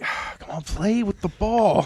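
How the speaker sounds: breathy high coax that slows to a high, loud plea; half-laughing, urging a lazy dog to play. Retold or imitated. Owner begging her dog to play with the ball, coaxing.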